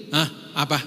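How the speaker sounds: bored spouse. Retold or imitated. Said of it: "diajakin ngomong aja begini".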